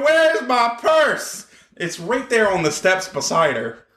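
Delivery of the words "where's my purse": repeating the shrieking wrestler; mock scream. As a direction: stretch it out like a hammed-up shriek. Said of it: "she just kept screaming".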